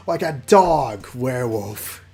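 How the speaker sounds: loud, slow growly beast voice; werewolf growl. Acted. Liam growling that he fights like a dog werewolf.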